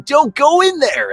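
high, drawn-out panicked-viewer yell; mock horror-movie shout; yelling at screen. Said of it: "You shout at the T V screen yelling".

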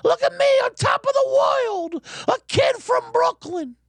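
mock nostalgic Brooklyn tough guy; over-the-top Brooklyn kid. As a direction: belt it like a cheesy one-man show star. Mocking Brooklyn nostalgia show.

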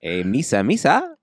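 silly alien impression, pitch swooping up; mock cartoon-alien voice; Jar Jar Binks. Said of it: "Does she sound like Jar Jar Binks?".

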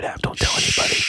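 soft secretive whisper. Real, not acted. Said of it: "Why are we whispering?".

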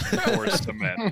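high, loud Boston tough guy; hammed-up blue collar Bostonian; Boston accent.

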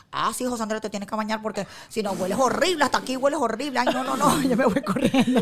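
dragón que regaña en broma, algo fuerte; regañar al niño en broma como mascota; pet dragon voice. Acted. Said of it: "dile por favor a tu papá José Andrés". (dragón barbudo que le dice al niño que se bañe)

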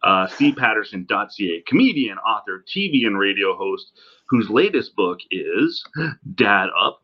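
distant laptop mic sound; tinny, far-off recording; from another room. Real, not acted. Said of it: "me sounding like I'm talking from the other room".

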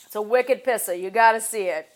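lightly done Boston guy; light Boston accent. Pretend. Boston pal urging you to see it, light Boston accent. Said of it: "a Boston accent".

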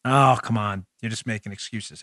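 low, softly dismissive heckle; lightly voiced sceptic, low and quiet; mock objection. Voices the sceptical listener again.

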